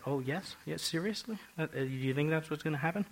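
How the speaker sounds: softly voiced mock disbelief; a quiet, understated challenge in questions; provoked. Preacher voicing God provoked by the threat, understated incredulity. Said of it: "It provoked him. He said".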